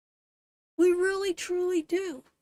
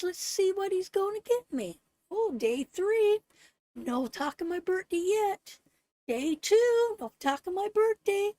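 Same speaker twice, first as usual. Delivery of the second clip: wistful counting down the days; acting out waiting; 4 semitones higher than usual. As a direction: play the hurt wife waiting.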